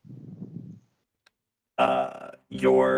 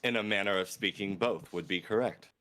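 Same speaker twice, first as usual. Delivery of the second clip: a touch higher, softer voice; soft-spoken character; 7 semitones higher, 9 dB quieter than usual. Acted. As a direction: speak as a polite stranger. Player's character voice.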